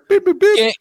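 high beeping computer voice; robot voice. Pretend. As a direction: beep like a robot. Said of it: "We know that in the computer".

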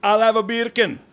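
hammed-up Jamaican order; mock Jamaican accent. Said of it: "bacon in Jamaican".

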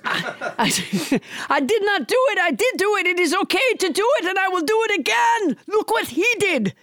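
high, hammed-up French accent; pompous denial in a mock French accent; French Trump. French Trump brazenly denies then admits it, mock French accent. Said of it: "with a French accent".

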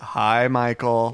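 lightly voiced, drawn-out greeting; slow, mildly put-on phone reply; imitating Rolando. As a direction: stretch out a slow receptionist hello. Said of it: "you hear Rolando's voice".

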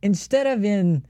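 high, slow exec voice; studio exec. Retold or imitated. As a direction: drawl the note like an executive. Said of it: "at the end it goes".

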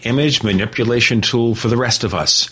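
measured, clearly articulated radio sponsor read. Acted. Host pitching Graphic Converter to radio listeners, polished ad read. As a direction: sell it, slowing right down for the web address.

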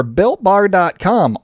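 slow, stretched announcer read; slow drawn-out announcer. Acted. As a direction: drag out the web address. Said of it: "boxer announcer voice".

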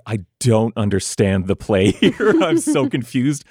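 slow, amused bewilderment, pitch rising; bewildered Atticus. Acted. Atticus baffled by the plan, comically confused. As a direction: draw it out, utterly lost. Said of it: "Atticus is fully like".

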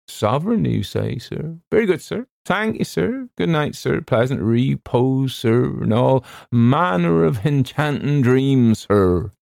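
fawning steward, thrilled by the tip; delighted. A narrator's reading. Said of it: "delighted at being released".

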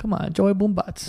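hint of an old Italian man; chummy old Italian neighborhood guy, lightly put on; old Italian man accent. Old guy vouching for Joey, light old Italian accent. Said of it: "like an old Italian man accent".

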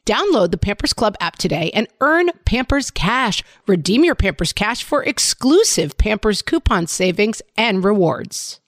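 upbeat sponsor read to a co-host. Acted. Host reading a diaper ad to her co-host, upbeat ad read.

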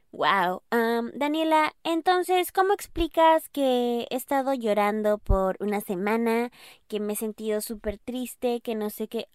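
a touch of whiny friend; voicing a listener. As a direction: play the hurt friend pleading with Daniela. Listener voiced asking Daniela.

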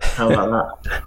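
light put-on Delco accent; playful Delaware County Philly-area accent. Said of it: "look at that accent".

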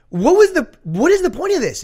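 high, loud incredulous question; loud mock exasperation; exasperated bafflement. Acts out baffled audience member.

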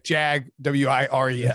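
"Jag, W I R E S" spelt out letter by letter; spelling out Jag-wires. Shown as a demonstration. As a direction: break "Jag" off, then spell out W I R E S. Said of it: "like to pronounce it".

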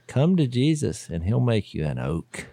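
slow, dropping mock altar call. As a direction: land the punchline like a preacher's closing invitation. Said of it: "this is a tombstone line".

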